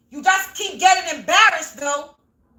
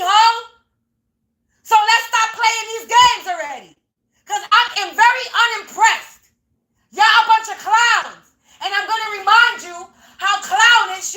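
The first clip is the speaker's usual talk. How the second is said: angry yelling; 4 semitones higher than usual. Real, not acted. Yelling at the neighbors to expose them, angry shout. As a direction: let them have it, shouting. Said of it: "yelling for a few seconds".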